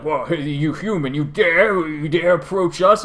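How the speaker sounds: hammed-up haughty dragons scoffing; mock outraged dragons.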